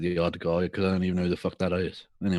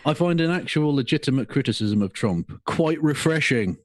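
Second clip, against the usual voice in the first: mock Pakistani accent; hammed-up Pakistani accent; 7 semitones higher than usual. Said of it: "I'm gonna do it in a Pakistani accent".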